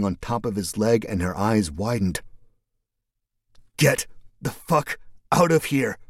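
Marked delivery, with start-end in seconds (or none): 3.8-6.0 pained gasp, teeth clenched; wheezing through clenched teeth. Acted. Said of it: "managed to wheeze through clenched teeth".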